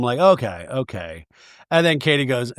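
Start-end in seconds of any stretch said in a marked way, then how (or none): 0.2-1.3 calm. Retold or imitated. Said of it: "Katie just very calm".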